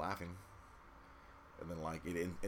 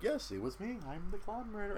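mock Joker confession; 12 semitones higher than usual. Joker confessing, voiced mockingly.

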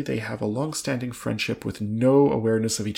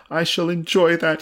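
higher, louder eager exclamation; excited cry; 7 semitones higher, 5 dB louder, slower than usual. A narrator's reading. Mister Saltina to the Earl about ladies' parties, excited cry. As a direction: cry it out with keen anticipation. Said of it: "he cried".

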